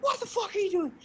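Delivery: very high mock scream at normal volume; high-pitched screech in imitation of mom. Mom scaring the crap out of us, mock scream. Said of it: "and she screams".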